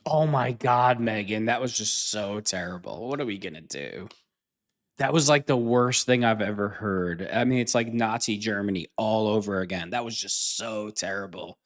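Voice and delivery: feigned dismay, sighing away at sentence ends; mock horror. Mocks Megyn's outrage with exaggerated horror.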